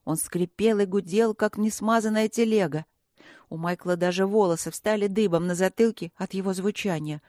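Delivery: ordinary delivery, nothing marked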